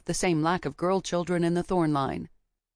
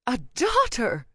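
midwife voice; 6 semitones higher, 3 dB louder, slower than usual. A narrator's reading. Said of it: "said the midwife".

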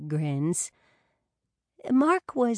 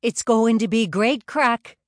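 much louder, hearty boast; loud booming; 5 semitones higher, 9 dB louder than usual. A narrator's reading. Tom promising the women a fun night, loud. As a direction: boom it out like the loudest in the room. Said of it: "his voice was always the loudest".

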